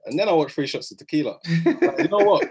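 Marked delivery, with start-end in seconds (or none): 1.8-2.5 high, loud mock defiance; defiant outburst. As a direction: blurt it out like you're done caring.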